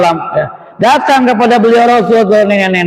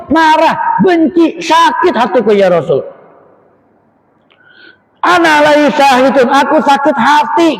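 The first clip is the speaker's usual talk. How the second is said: angry mother; 5 semitones higher than usual. Acted. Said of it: "emaknya Alqamah menjawab".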